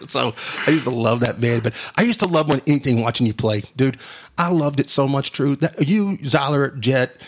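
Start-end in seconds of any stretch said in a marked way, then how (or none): none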